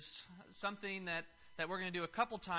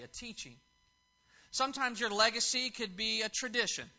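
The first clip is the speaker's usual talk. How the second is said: projected, raised sermon delivery; emphatic preaching; 4 semitones higher, 5 dB louder than usual. Real, not acted. Preacher telling fathers about leaving a legacy, emphatic preaching. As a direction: preach it out to the congregation, leaning on key words.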